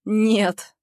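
резко и громче, без сочувствия; отрезать жёстко; холодное «нет». Acted. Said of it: "отрезаю без тени сочувствия". (героиня жёстко отказывает Нику)

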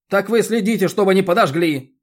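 loud, high angry bark. A narrator's reading. Roman barks at the chairwoman, losing his temper. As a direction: snap it out at full volume. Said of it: "рявкнул Роман".

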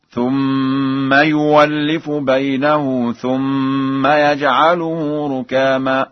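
slow chant, "يولف" said yuwallifu; held nasal m, pure w in "يولف" with no glottal stop; hamza as waw. Shown as a demonstration. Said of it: "بإبدال الهمزة واوا هكذا". (ترتيل بطيء بإبدال همزة "يولف" واوا)

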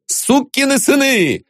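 high, blustering swearing; blustering curse. A narrator's reading. Viktor Mikhailovich blusters to the onlookers. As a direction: swagger for the audience. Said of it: "говорил он, обращаясь к зрителям".

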